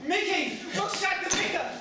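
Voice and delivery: high, loud posh exclamation; posh English voice. Acted. Posh boy calling to his friend, loud posh voice. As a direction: call out in a posh English accent. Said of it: "swearing in that posh voice".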